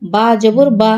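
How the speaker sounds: brief, unheld বা at the end; short vowel. Shown as a demonstration. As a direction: cut the final বা short. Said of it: "হরকতের উচ্চারণ দ্রুত পড়িতে হয়".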